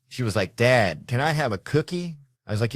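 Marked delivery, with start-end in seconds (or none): 0.6-2.2 put-on higher, sweet-talking child; lightly acted little girl asking nicely; soft-voiced little daughter. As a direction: imitate a daughter coaxing her dad. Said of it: "she hit me with a soft voice".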